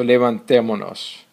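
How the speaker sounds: levantémonos with the stress on TÉ; accented-syllable stress. Shown as a demonstration. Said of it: "maintain the pronunciation, proper pronunciation".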